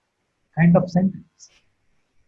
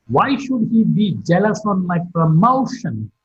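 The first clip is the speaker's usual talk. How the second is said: "promotion" glides down at the question's end; falling tone on promotion. Shown as a demonstration. Teacher giving a why-question example, falling tone on "promotion". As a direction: let the pitch drop through "promotion". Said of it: "Promotion is marked with a point".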